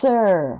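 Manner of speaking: sir with the tongue sliding back from the S. Shown as a demonstration. Teacher demonstrating the tongue sliding back in sir. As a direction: let the tongue glide back audibly through sir. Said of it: "ベロが後ろに移動する音がするんです".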